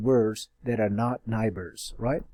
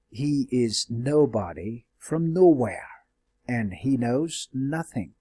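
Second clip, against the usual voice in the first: slow poetic reading. Shown as a demonstration. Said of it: "This gives you a music".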